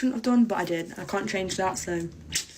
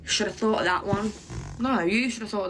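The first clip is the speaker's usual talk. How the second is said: smug teacher. Retold or imitated. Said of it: "They were like".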